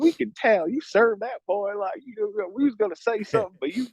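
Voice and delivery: put-on high-pitched, approving older lady; imitated older Michigan woman. Older women praising him for standing up, imitated high. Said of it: "And they're like".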